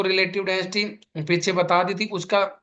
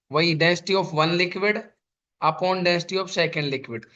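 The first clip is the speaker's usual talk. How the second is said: density of one liquid upon density of second liquid, each word stretched out; slow dictation; much slower than usual. Shown as a demonstration. Teacher to students copying the formula, slow dictation. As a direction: dictate the formula slowly for notes.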